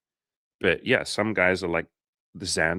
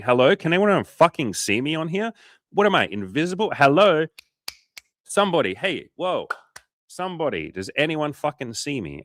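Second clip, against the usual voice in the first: high, loud mock plea to be seen; desperate calling out; 8 semitones higher, 5 dB louder than usual. Guy on dating apps begging to be noticed, high mock calling out. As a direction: call out like an ignored man waving his arms. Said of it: "waving their hands in the air and saying".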